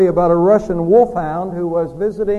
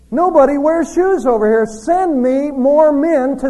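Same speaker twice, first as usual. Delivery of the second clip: eager optimist; 4 semitones higher than usual. Acted. Optimist salesman's eager letter.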